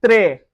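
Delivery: très with the S silent, slow; French très. Shown as a demonstration. Teacher modelling très slowly for students. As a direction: draw out très without the final S. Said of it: "Très, which means very".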